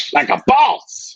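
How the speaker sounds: high, slow cocky cheer; triumphant shout. Acted. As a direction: belt it out like a champ. Boasting catchphrase after self-joke.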